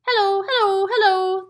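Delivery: high, loud squawking parrot; parrot calling. A narrator's reading. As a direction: call down the chimney squawking. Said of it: "the bird called down".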